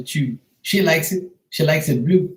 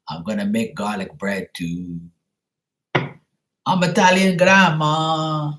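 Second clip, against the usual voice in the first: Italian grandma; 2 semitones lower than usual. Acted. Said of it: "You wanna hear some Italian grandma singing?".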